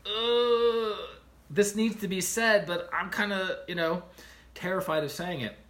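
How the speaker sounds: a high, pained groan then nervous words; anxious inner voice. Retold or imitated.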